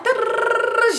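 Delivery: high-pitched imitated rant noise. Mimicking the mad friend's tirade, high mock-angry noise.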